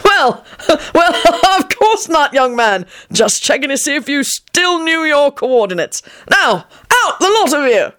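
put-on high, chuckling old codger; laughing old man. A narrator's reading. Old man caught out by Lupin, high chuckling voice. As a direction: laugh it off, then bark orders.

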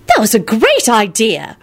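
impressed, drawn-out compliment; admiring. A narrator's reading. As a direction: marvel at a friend's cleverness. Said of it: "Rosie said admiringly".

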